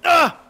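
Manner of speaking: sudden loud, high "Ah!"; short scream into the mic; startled scream. Real, not acted. A gamer yelping at a play in his mic, screaming. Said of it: "I'm screaming in the mic".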